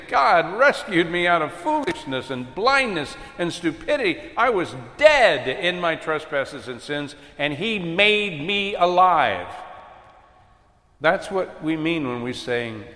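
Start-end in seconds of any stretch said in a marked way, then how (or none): 0.1-9.5 sincere and earnest, slowing at the end; humble confession. Shown as a demonstration. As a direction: say it as grateful testimony. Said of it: "No, we're gonna be saying".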